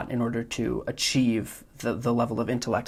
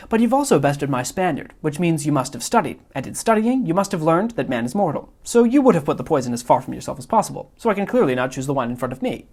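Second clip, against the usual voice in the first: Wallace Shawn's Vizzini; 3 semitones higher, 3 dB louder, faster than usual. Acted. Vizzini lecturing the Man in Black on the poison, loud and smug. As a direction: build the logic faster like a gloating genius. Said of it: "mimicking Wallace Shawn's inflection".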